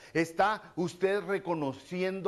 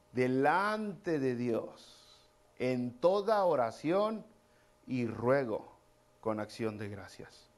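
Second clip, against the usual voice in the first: slow, deliberate reading of the verse; measured pulpit reading; slow scripture reading; 3 semitones lower, much slower than usual. Acted. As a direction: read each phrase slowly like holy text.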